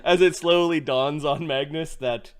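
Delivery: narrating while cracking up; laughing through words. Real, not acted. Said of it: "narration broken by laughter".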